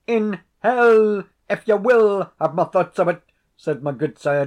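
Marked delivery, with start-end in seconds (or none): 0.1-3.2 much higher and louder outburst; defiant shout. A narrator's reading. Desperate tenant shouts back at the laird, loud and high. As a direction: hurl it at him in desperation. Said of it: "driven to extremity".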